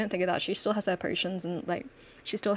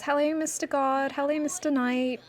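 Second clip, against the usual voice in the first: sweet-talking greeting; 7 semitones higher than usual. Acted. Plenty sweet-talks the guard.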